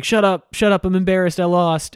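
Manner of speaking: embarrassed brush-off. Retold or imitated. Shao Kahn snapping at Quan Chi.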